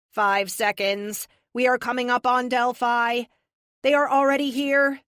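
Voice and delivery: crisp synthetic AI voice. A narrator's reading. Epic the AI voice.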